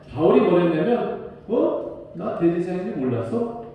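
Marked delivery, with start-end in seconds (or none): 1.5-3.6 mock innocent retort. Paul retorting to the bystander, feigning innocence. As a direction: play dumb, cheeky comeback. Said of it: "라고 받아쳤어요".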